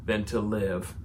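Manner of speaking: a loud, pleading Jonah cries to the Lord; scripture read with a swell of pleading; dramatic scripture reading. Acted. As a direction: read it aloud like a desperate prophet. Reading scripture aloud, Jonah's prayer.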